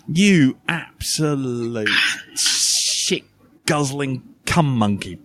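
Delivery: slow build, then shit flung out in a sudden very high burst; insult with a run-up. Shown as a demonstration. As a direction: take a run up and hit him with it. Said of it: "if you just take a run up with it".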